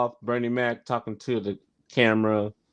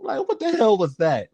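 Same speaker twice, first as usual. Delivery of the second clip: a higher, disbelieving Bernie voice; Bernie Mac impression; 8 semitones higher than usual. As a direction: put on Bernie's baffled tone. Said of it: "Bernie Mac was like".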